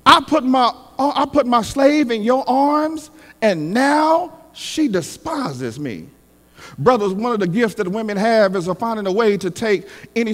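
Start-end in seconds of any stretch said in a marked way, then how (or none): 0.0-6.1 upset Sarah. Acted. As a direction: accuse him as the wronged wife. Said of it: "Sarah gets upset and says".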